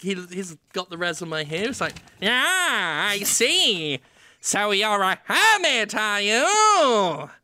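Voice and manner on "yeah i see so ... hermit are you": very slow, drawn-out, with "I" stretched long. Acting out a job interview as the movie theater owner: Charles Dance as theater owner.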